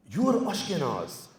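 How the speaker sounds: slow, mildly disgusted retort; disgusted Persian grandma. Retold or imitated. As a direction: imitate a grandma's slow disdain. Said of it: "she said it with such disgust".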